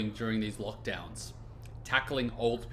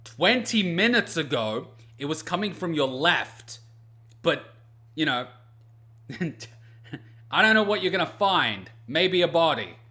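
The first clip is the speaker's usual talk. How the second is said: sarcastic; 4 semitones higher, 4 dB louder than usual. Retold or imitated. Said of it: "It's like".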